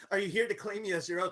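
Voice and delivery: fast, rushed quote of her line; lightly voiced tabaxi. GM recapping the tabaxi's question, quick and light.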